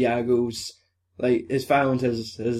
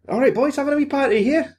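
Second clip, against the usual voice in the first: high, quick put-on greeting; high-pitched character voice; police officer voice; 12 semitones higher, faster than usual. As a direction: chirp it as the nosy officer. Acting out police officer greeting vampires.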